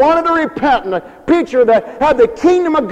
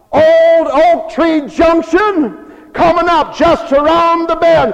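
conductor's call; 6 semitones higher than usual. Acted. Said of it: "the old conductor yells out".

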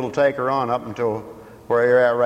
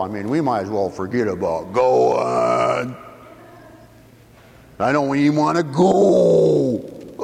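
exasperated grumbling rant, half shouted; fed-up husband. Retold or imitated. Preacher acting a husband griping at his wife. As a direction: act the sulky husband calling the trip off. Quoting a man mad at wife.

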